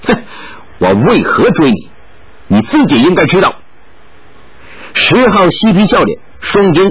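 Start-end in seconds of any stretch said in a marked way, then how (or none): 0.1-3.5 cold sneer. Acted. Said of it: "冷冷笑道".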